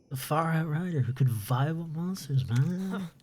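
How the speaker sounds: surfer dude voice. Retold or imitated. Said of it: "speak like that".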